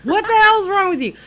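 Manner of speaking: high-pitched mock road-rage yell; retold scream. Driver retelling screaming at pack drivers, mock yelling. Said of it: "screaming, going".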